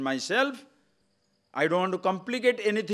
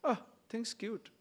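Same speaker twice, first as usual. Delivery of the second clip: cooing; 5 semitones higher, 9 dB quieter than usual. Shown as a demonstration. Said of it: "Another one".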